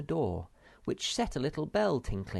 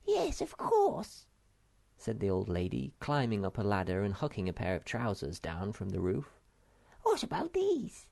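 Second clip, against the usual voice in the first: put-on little old lady. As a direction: greet the children in a bright squeaky voice. Old lady offering trousers.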